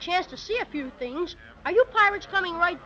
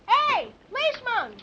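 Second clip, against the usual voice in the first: raised, higher-pitched hail; yelling; 5 semitones higher than usual. Acted. Boy to distant policeman from rowboat, yelling. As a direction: call out to someone far off. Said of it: "Yell at him".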